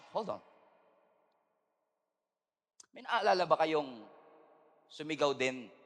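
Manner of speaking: ordinary talk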